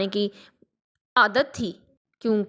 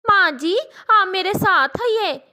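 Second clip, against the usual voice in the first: sparrow Rano; 7 semitones higher than usual. Acted. Sparrow Rano speaks to old dove.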